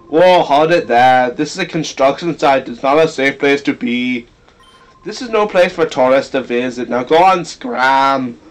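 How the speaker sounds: put-on Mexican accent. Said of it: "sorry for giving him that accent".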